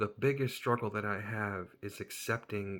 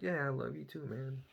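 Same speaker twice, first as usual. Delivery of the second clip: higher-pitched, awkward brush-off; awkward reply; 5 semitones higher than usual. Retold or imitated. Humoring a weird guy at the table, awkward reply. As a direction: play along uneasily, pitched up. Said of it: "it was really awkward at this point".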